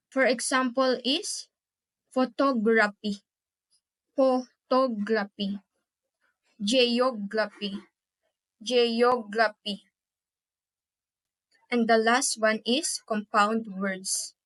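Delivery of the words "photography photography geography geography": "photography" and "geography" in measured syllables, weight on TOG and OG; syllable stress demo. Shown as a demonstration. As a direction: lean on the middle of "photography" and "geography". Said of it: "Stress is on the second to the last".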